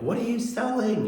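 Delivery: mild mock yell at the door-to-door salesman; retold yell. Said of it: "I just yelled at him".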